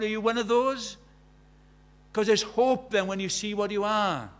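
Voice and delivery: impassioned preaching with punched key words. Acted. Preacher challenging the congregation to see what they are, forceful preaching. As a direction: press the questions home to the congregation.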